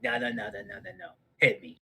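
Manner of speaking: loud, pleading hit me; insistent demand. Retold or imitated. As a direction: beg him to hit you, full force. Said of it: "but I was like".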